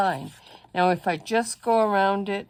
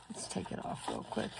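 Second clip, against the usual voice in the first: muttered aside; 11 dB quieter than usual. Real, not acted. Muttering to self while fixing.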